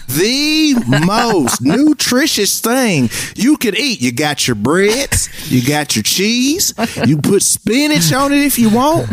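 put-on lightly done Tennessee coach accent. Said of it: "he says in his country, uh, Santa Fe, Tennessee accent".

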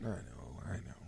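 soft resigned whisper; whispered I know. Real, not acted. Host whispering in defeat after the teasing. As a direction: breathe it out, defeated.

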